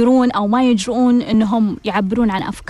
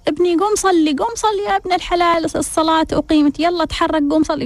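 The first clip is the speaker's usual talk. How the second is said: higher, fast, pleading father urging his son; urgent father; 4 semitones higher, faster than usual. Retold or imitated. Father hurries his lazy son to prayer, higher and fast. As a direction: press him to get up and pray, quicker and quicker. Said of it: "كان يقول له".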